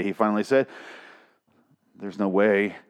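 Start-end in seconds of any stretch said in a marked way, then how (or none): 1.9-2.8 very slow, weighted word by word; slow disbelief. Real, not acted. Reader doubts the father's quote, slow emphatic disbelief. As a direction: drag it out, utterly incredulous.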